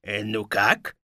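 low, mildly flirtatious wolf; coquettish. Acted. Wolf in a dress to captives, coy. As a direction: fish lightly for compliments, low and soft. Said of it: "кокетливо спросил".

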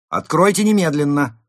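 high, loud demand; urgent, forceful yell; commanding shout. A narrator's reading. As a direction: holler an order through a door. Gang demands entry behind door.

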